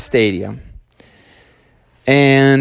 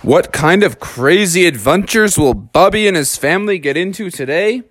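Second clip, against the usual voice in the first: story show intro; 3 semitones higher than usual. A narrator's reading. Storyteller opening Bubby's stadium adventure, grand intro.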